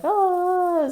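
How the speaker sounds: mock scream. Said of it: "screaming or whatever".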